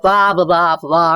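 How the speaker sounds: American blah-blah with an open jaw; wide-open American sound; open American accent. Shown as a demonstration. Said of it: "Americans are like".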